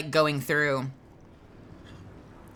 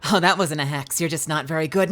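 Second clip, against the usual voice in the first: character catchphrase; 3 dB louder than usual. Retold or imitated. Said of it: "a bit of a, a juggle".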